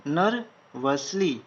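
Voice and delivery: नर्वसली stretched slowly syllable by syllable; slow, drawn-out dictation. Shown as a demonstration. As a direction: draw out नर्वसली for students writing. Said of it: "slowed take". (नर्वसली को धीरे-धीरे खींचकर बोलें)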